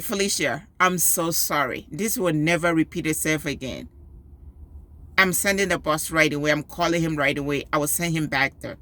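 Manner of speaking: calm the angry parent down gently; calm apology. Retold or imitated. School receptionist apologizing to an upset mother, low and calm. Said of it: "the talking to me was so calm".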